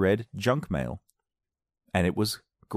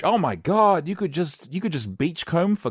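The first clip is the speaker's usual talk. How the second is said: amazed; 7 semitones higher, 3 dB louder, slower than usual. Real, not acted. Amazed at article.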